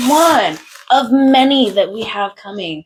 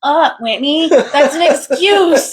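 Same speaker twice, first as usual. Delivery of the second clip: harsh inner voice; 8 semitones higher, 3 dB louder, slower than usual. Retold or imitated. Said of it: "You're like".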